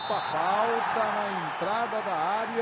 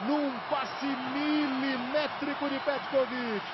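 explosive goal commentary; 5 semitones higher than usual. Real, not acted. Goal call and replay.

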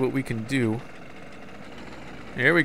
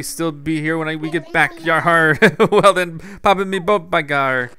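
put-on pirate accent. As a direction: growl the pirate bits, laugh into them. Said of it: "that's my best accent I can do for that guy".

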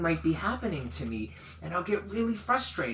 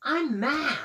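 mad declaration; 9 semitones higher than usual. Shown as a demonstration. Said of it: "but I never say".

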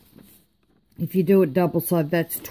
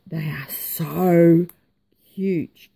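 gushing whisper; much slower than usual. Real, not acted. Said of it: "gushing over die cuts".

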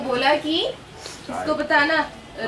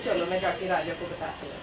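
a hint of a surprised queen; 7 semitones lower, 6 dB quieter than usual. Teacher voices the queen.

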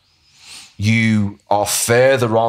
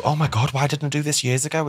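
shocked patient; 6 semitones higher, 4 dB quieter than usual. Retold or imitated. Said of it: "And then they go".

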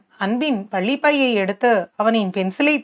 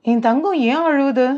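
lightly cooing father; doting; 3 semitones higher than usual. A narrator's reading. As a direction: coddle a crying little daughter. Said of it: "அவளை கொஞ்சாதீங்க". (செல்லம் கொஞ்சும் அப்பா)

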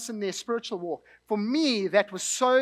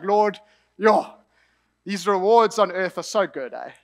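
casual slangy; 2 semitones lower than usual. Retold or imitated. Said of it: "I'm paraphrasing, I didn't say it like that".

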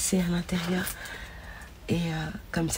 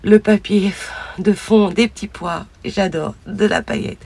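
excited gushing; 5 semitones higher, 11 dB louder than usual. Real, not acted. Describing gift excitedly.

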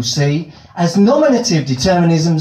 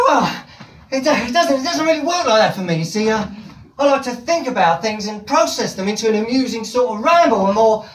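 timid pleading; 6 semitones higher than usual. Pretend. Timid pitch of his comedy.

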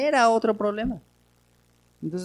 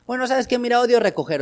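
sincere; 6 semitones higher than usual. Retold or imitated. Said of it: "ya es sincero".

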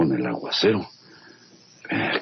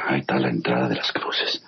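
whispered aside. Acted. Plotting alone in storm.

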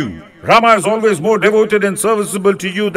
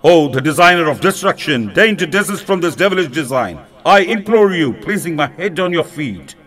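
raised, pleading fury of a wronged king; higher-pitched angry king's outburst, sliding into desperate pleading; wrathful censure; 4 semitones higher than usual. Acted. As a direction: rage at her, then beg at her feet. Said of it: "he broke out into wrathful censure".

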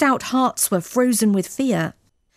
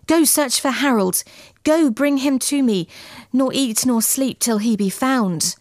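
pleading command, pitched higher; urgent cry; 4 semitones higher than usual. Acted. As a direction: urge them on desperately. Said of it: "But Eso cried out".

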